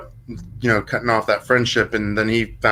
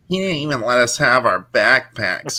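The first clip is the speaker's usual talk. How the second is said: lightly whiny stoned guy; whiny stoner voice. Retold or imitated. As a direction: whine it like a burnout. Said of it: "he kinda had, like, this whiny stoner voice".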